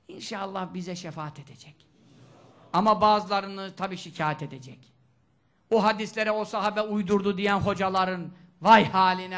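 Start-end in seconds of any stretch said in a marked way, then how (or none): 5.7-9.4 louder, stern preacher warning. Acted. Preacher warns hadith-denying teachers, stern and loud. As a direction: warn them with rising force.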